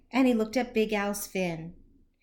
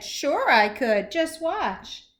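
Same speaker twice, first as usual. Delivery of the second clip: puffed-up boast; 2 semitones higher, 3 dB louder, slower than usual. Acted. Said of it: "Big Al puffed himself up and said".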